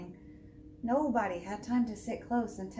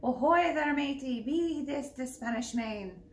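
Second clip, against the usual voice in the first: pirate yell; 3 semitones higher than usual. Acted. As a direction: bellow it like a sea captain.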